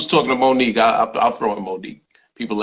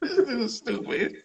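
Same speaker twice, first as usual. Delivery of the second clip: silly high voice; 13 semitones higher, 6 dB quieter, slower than usual. Acted. High put-on voice remark.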